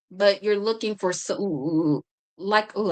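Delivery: stumbling over the words; stuttering, losing the thread. Real, not acted. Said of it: "I'm stuttering".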